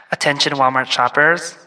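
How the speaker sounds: monotone store PA announcer. Pretend. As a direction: page a coworker over the store intercom. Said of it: "Like an announcer voice".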